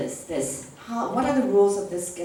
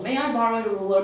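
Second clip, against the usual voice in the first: quick student request; 4 dB louder, faster than usual. Shown as a demonstration.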